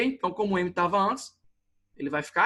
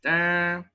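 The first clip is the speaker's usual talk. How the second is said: mock bell "tããn", drawn out; imitated bell. Shown as a demonstration. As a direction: imitate a little bell's ding. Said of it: "sininho, né".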